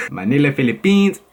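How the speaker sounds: attempted Filipino accent. Vlogger doubting own impression of Manila, Filipino accent. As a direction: imitate a Filipino accent for the place names. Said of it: "no way they sound like that".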